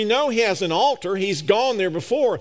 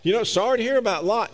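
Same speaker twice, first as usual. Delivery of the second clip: facetious casual chat. Pretend. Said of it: "I'm being facetious now".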